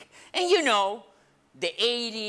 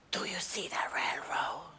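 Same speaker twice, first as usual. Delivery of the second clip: hushed, secretive whisper; 9 dB quieter than usual. Acted. Brother whispers to sibling in the car, hushed secretive whisper. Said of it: "Why are we whispering?".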